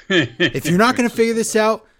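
high, loud proclamation, building to the end; climactic ultimatum. Retold or imitated. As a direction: imitate a boss announcing a big decree. Acted boss's climactic ultimatum.

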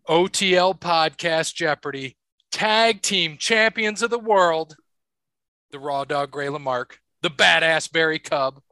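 booming ring announcer intro; grand entrance announcement. Acted. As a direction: stretch it out like a wrestling announcer.

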